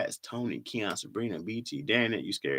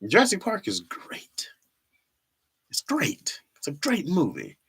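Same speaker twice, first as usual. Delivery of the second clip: whispering; 6 semitones higher than usual. Real, not acted. Whispered aside.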